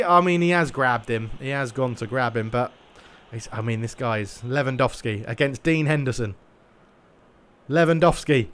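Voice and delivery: lively football play-by-play call; match commentary. Acted. Streamer commentating his own eFootball match, lively play-by-play. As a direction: commentate the game live as it unfolds.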